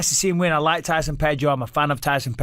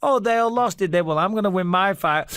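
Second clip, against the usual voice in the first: higher-pitched mock bragging; Robert Whittaker; 4 semitones higher than usual. Fighter happy to be the last Australian winner, mock boastful. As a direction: brag lightly as an imitated rival. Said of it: "Because he's like".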